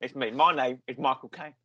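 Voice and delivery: square-jawed actor impression, lightly done; Michael Caine. Podcaster improvises the actor refusing puppets, lightly impersonated. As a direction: lightly mimic a London film star. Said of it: "summon your Michael Caine impression".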